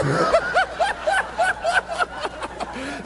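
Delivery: real laugh; high laugh. Real, not acted. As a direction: laugh peaking high then falling. Laughing at own story.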